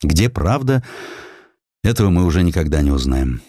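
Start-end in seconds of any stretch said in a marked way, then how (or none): none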